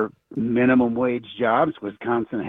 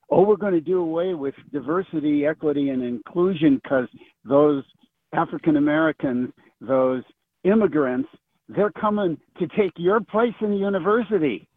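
higher-pitched mocking imitation of fearmongering; mock alarmism; 5 semitones higher than usual. Caller mimicking politicians who incite their base, mock alarmed.

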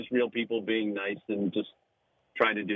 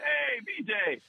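very high mock holler, no real volume; high retold call-out; imitated shout; 11 semitones higher, much slower than usual. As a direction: imitate someone hailing from across the room. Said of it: "some guy shouts".

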